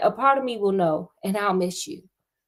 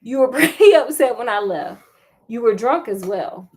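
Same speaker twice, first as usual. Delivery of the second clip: laughing; 4 dB louder than usual. Acted. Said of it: "How the hell does she know?".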